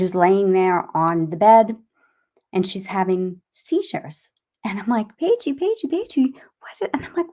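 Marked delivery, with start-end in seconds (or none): 5.2-6.9 high, urgent retold calls to a child; alarmed calling. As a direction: re-enact a mother's alarm, pitch jumping up. Mother calling to unresponsive daughter.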